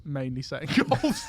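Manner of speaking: low imitation of an unforthcoming coach; stiff, unfriendly. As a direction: imitate her reserve, cracking up near the end. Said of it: "she really was quite stiff".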